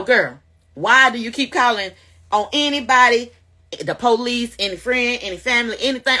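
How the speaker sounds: a touch of chiding her past self; self-scolding. Retold or imitated. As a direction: scold yourself sharply. Scolding herself.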